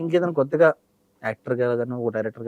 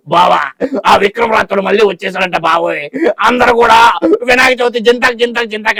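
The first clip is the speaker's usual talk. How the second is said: comic film character; 2 semitones higher, 5 dB louder than usual. Pretend.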